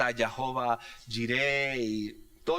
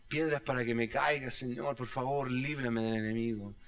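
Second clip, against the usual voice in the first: model prayer. Shown as a demonstration. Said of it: "models a prayer of dependence".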